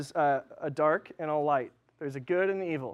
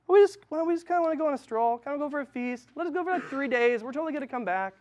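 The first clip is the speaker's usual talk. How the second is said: high, fast, evasive mock Moses; sheepish Moses; 8 semitones higher, faster than usual. Pastor mocking Moses' excuse to Pharaoh, high and sheepish. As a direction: weasel out like a nervous kid making excuses. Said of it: "Moses is freaking out".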